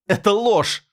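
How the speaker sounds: high, loud cry of denial; high desperate yell; shout. A narrator's reading. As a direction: scream it at the others. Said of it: "закричала она".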